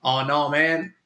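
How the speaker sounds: a hint of a Southern accent; lightly drawled Southern-accent immigration officer; half-hearted Southern accent, barely put on; vague Southern accent. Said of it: "I don't know what accent that was".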